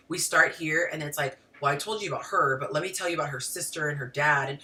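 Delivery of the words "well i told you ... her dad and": quick, run-on storytelling with no full stops; rambling woman's storytelling. Acted. Woman telling a friend a story that branches off, rambling. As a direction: rattle through it, looping from detail to detail. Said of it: "you know how a woman tells a story".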